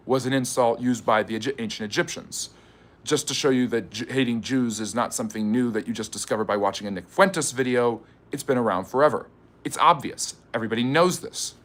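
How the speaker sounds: a smug mock-pundit voice, lightly done; Tucker Carlson voice. Host mocking chat in a light Tucker Carlson voice. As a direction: sneer it like a cable-news host, but only a touch. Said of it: "I'm liking this accent too much".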